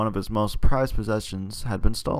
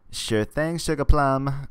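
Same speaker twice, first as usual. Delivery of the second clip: higher sing-song AI helper; chipper assistant voice; 6 semitones higher, 3 dB louder, slower than usual. Acted. Phone chip chirping a pet name at its owner, chipper. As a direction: sweet-talk your owner like a cheerful phone chip. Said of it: "Miss E Chip Ju echoes in your ear".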